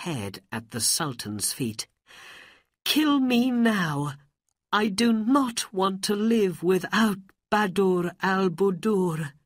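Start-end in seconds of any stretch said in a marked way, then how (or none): 2.8-9.3 high, loud, despairing plea; tearful plea. A narrator's reading. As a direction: beg for death in a raised, grieving voice. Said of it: "There were tears in his eyes".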